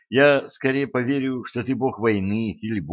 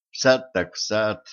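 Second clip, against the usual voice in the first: ordinary delivery, nothing marked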